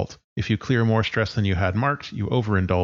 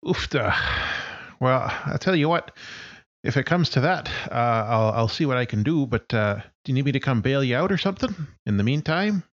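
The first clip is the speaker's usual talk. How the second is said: 4 semitones higher than usual. Acted. GM voices friend on phone.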